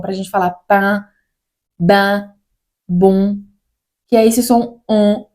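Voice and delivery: pan, ban, bom said slowly through the nose; nasal French vowels. Shown as a demonstration. Teacher drilling French nasal sounds for Brazilian students. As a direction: hold each nasal vowel with a nose vibration. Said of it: "como se a gente estivesse falando com o nariz".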